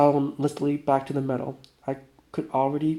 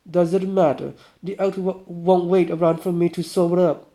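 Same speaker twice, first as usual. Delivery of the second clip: put-on higher, louder swaggering drunk voice; boastful drunk guy; 4 semitones higher, 5 dB louder than usual. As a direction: brag like a tipsy hunter. Vanya voice again.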